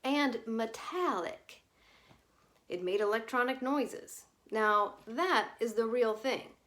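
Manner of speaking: a hint of a bad Southern accent. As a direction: ham up a Southern accent badly. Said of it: "lapsed into his bad Southern accent".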